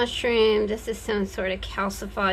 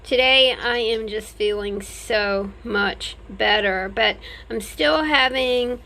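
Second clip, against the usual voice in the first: speaking with stitches in mouth; slightly slurred post-surgery speech; after wisdom teeth; 3 dB louder than usual. Real, not acted. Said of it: "I've got stitches in my mouth".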